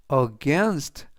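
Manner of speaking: against with the stress on GAINST; stress on second syllable. Shown as a demonstration. Teacher showing learners where against is stressed, second-syllable stress. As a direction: say against, leaning on the A after the G. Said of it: "G 뒤에 있는 A의 강세가 있습니다".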